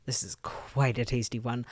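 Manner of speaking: hushed, airy, savouring whisper; breathy whisper. Acted. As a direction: whisper it like tasting a treat. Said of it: "liaison whispers breathily".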